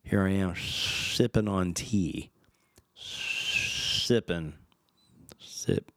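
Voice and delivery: a fading whispered lisp on sip; lisping demo. Shown as a demonstration. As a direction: try the lisp on sipping, trailing off. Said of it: "speak normally like that".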